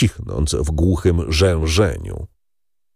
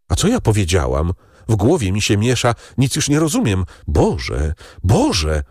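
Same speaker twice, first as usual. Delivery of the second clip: raised, rushed despair, half-unhinged; panicked wife; 2 semitones higher than usual. Acted. Terrified wife crying out to God in despair. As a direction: her thoughts scramble as panic takes her.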